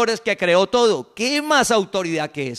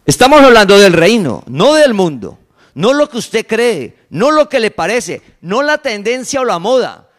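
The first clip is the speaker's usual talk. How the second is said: much louder, forceful preaching; preaching shout; 8 dB louder than usual. Real, not acted. Preacher shouts to the congregation, forceful and loud. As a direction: hammer the point home to the congregation. Preacher drives home his point.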